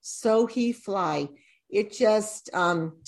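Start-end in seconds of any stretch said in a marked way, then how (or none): 0.0-1.3 slow and deliberate. Shown as a demonstration. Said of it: "one of them is this".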